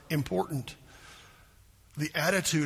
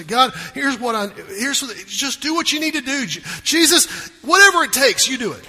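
builds higher and louder to a fervent cry; fervent prayer; 6 semitones higher, 7 dB louder than usual. Acted. Believer prays to God, building from halting to fervent. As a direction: pour it out, building to surrender. Preacher voices surrendering prayer.

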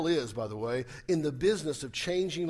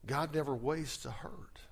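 whispered; 6 dB quieter than usual. Shown as a demonstration. Repeating the quote softly.

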